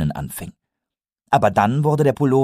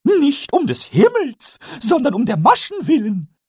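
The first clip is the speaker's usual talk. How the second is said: Pumuckl correcting; 5 dB louder than usual. Acted. Pumuckl corrects Eder, very high and pleased. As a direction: correct him like a smug little kobold. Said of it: "verbesserte Pumuckl".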